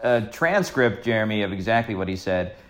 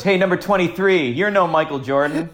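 retold heckle; 6 semitones higher, 3 dB louder than usual. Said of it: "he yells at Michael Chavis".

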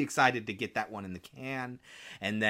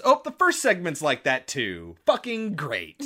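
sarcastic; 5 semitones higher, 6 dB louder than usual. Retold or imitated. Retold discovery of ruined audio.

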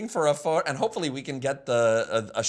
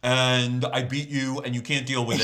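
Joker-like villain voice; 4 semitones lower than usual. Retold or imitated. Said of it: "that does sound like the Joker".

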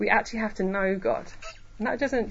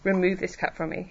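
a restrained prayer, asking rather than demanding; humble plea; 3 dB quieter than usual. Retold or imitated. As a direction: plead humbly, taking your time over it. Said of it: "He's not angry. He's not demanding".

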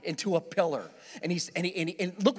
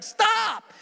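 much higher, louder slow yell; inner shout; 14 semitones higher, 6 dB louder than usual. Retold or imitated. Driver silently screaming at the cop holding the breathalyzer. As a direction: yell it in your head. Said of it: "I'm like".

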